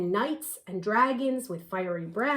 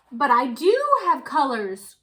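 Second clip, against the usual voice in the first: cried out; 3 semitones higher, 7 dB louder than usual. Acted. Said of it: "cried the little white owl".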